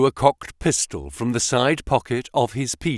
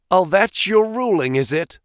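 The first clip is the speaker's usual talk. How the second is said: sneering; 8 semitones higher, 3 dB louder than usual. Acted. Baldwin sneers at the boss.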